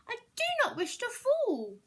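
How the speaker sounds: high, loud frightened plea; scared fish. Acted. Fish pleading with the cat not to drop him. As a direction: beg not to be dropped.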